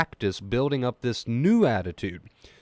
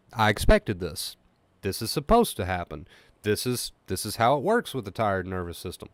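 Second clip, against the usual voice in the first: calm accepting inner voice; 2 semitones lower than usual. Shown as a demonstration. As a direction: say it to yourself gently, no alarm. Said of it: "this new attitude".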